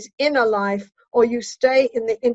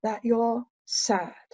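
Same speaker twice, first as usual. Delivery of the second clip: softer, unhurried empathic reflection; slow right down and go soft to reach her sadness. Shown as a demonstration. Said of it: "I slow my voice down and I go soft".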